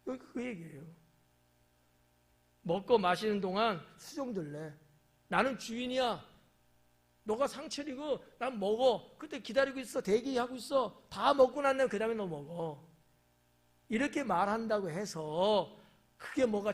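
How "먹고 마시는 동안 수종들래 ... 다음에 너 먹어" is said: bossy master. Acted. Master commanding his servant.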